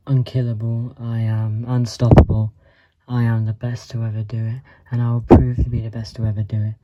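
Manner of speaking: rising hype-man shout of self-belief; loud boast. Pretend. Boasting to viewers that he is the greatest, loud and building. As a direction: pump it up like a fighter's promo.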